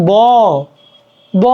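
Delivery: ব with its aw vowel sounded; ব voiced with its built-in vowel; inherent vowel demo. Shown as a demonstration. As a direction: say ব as a clear "baw". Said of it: "উচ্চারণ হচ্ছে, right?".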